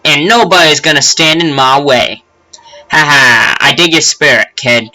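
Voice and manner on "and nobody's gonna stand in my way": put-on cocky kid voice. Brash kid rival voice.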